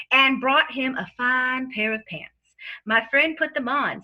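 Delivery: sleazy lawyer with a fake Southern accent. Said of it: "dons a false Southern lawyer accent".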